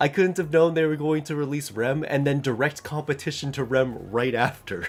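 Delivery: words bubbling out through laughter. Complaining about a game's character releases, laughing while talking. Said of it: "Sorry, I'm laughing".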